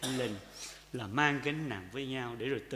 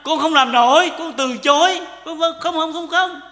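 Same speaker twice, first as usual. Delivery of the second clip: loud refusal; 13 semitones higher, 16 dB louder than usual. Retold or imitated. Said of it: "chúng ta chưa nói mà chúng ta".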